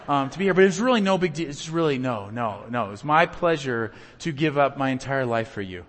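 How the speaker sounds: lightly hammed-up sarcastic self-sacrifice; mock selfless. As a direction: play the martyr, overly gracious. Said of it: "somebody says".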